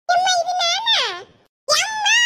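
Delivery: very high, loud shriek; shrill cry of disbelief; horrified scream. Acted. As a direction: scream it in shock at your own reflection. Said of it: "யார் இது இப்படி கிடந்து கத்தியது".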